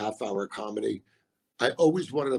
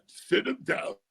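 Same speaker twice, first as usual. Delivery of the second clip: mom's urging; 6 semitones higher than usual. Retold or imitated. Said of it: "my mom was like".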